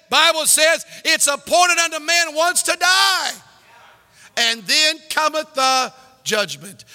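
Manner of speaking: loud preaching warning; full-force pulpit shout. Acted. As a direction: thunder the warning.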